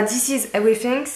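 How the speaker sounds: English with a French accent. Real, not acted. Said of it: "désolée pour mon accent". (accent français en anglais)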